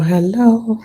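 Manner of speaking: a breathy whispered hello right after the loud one. Real, not acted. Greeting viewers again in a playful whisper. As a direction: drop to a whisper on the echo.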